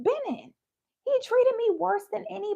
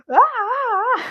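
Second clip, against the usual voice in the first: loud; 3 semitones higher, 10 dB louder than usual. Retold or imitated. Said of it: "I'd be like".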